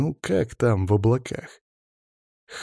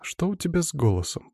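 suspicious; 7 semitones higher than usual. Acted. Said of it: "подозрительно спросила Даша".

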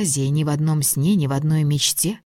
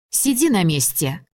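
sharp call; 3 semitones higher than usual. Acted. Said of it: "Я слегка прикрикнула на мужа".

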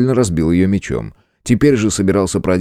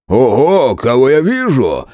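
exclaiming; 4 semitones higher, 3 dB louder, slower than usual. A narrator's reading. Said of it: "воскликнул толстый трактирщик".

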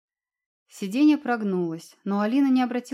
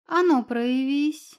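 slow, loud barked order; barked command; 5 semitones higher, 5 dB louder, slower than usual. Acted. Cat ordering the invisible guest to appear, barking. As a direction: bark it like a strict familiar. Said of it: "гаркнул фамильяр".

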